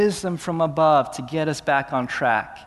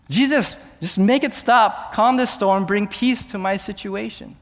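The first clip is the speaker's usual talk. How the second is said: desperate plea; 3 semitones higher than usual. Acted. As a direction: beg God to end the storm. Believer begging in a trial.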